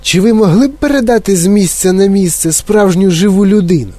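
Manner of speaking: lightly voiced insistent kid; persistent boy. Mike pressing Wonka, insistent. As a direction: keep pushing the question.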